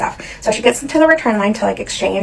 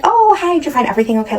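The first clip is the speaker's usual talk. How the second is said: super nice; 6 semitones higher, faster than usual. Retold or imitated. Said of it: "I was being super nice".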